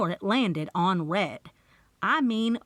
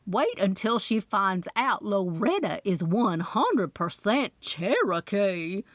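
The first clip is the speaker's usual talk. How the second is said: mock Loretta accent. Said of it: "sarcastically in her best Loretta accent".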